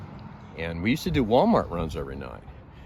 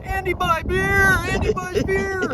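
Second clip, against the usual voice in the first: put-on much higher, slow, triumphant German-accented yelling; gleeful German buddy; 4 dB louder, slower than usual. German buddy holding beer, shouting gleefully to his friend. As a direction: crow it out like a proud kid. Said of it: "he looks and he says".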